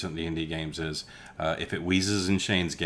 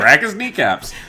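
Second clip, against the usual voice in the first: high, loud hammed-up threat; squeaky cartoon thug calling for violence; mock threat; 12 semitones higher, 11 dB louder than usual. Mock thuggish player plan.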